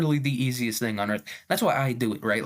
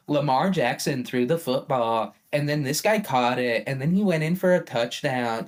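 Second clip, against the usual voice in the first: TikTok voice. Retold or imitated. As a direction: lightly imitate a TikTok voiceover. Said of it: "that is the TikTok voice too".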